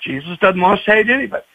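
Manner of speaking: lightly voiced preachy grandmother; mild, quick mock sermon to a child; sermonizing grandmother. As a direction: gently lecture a small child. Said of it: "she gave him a sermon".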